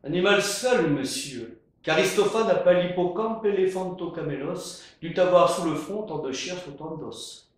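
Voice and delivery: pedantic. Acted. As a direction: lecture it like a pedant. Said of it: "Pédant".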